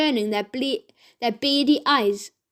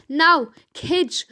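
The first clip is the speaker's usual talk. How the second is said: calling out; 4 semitones higher than usual. Acted. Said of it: "called out Ned".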